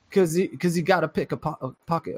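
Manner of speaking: horrible Cockney attempt. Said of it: "that was horrible".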